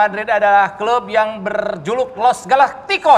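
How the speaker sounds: football commentator. Pretend. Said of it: "kalian harus komentarin ala-ala komentator bola".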